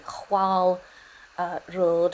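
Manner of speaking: "chwal" with a breathy h-w start, then "road"; Middle English pronunciation. Shown as a demonstration. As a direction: try "chwal" as HWAL, hesitating before "road". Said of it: "how to say that in Middle English".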